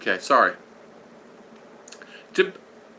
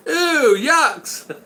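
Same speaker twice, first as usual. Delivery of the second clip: high, laughing mock kid voice; higher, laughing imitation of grossed-out kids; kids' laughing yuck; 8 semitones higher than usual. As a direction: play the giggling kids going yuck. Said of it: "all the kids were going".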